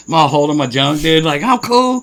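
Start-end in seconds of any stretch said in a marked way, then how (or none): 1.4-2.0 forced fine. Retold or imitated. Retold reply while in pain.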